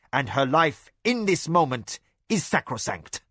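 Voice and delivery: a lightly voiced stern magician pronouncing judgement; a hint of solemn decree; formal Great One. Fumita addresses the gathering.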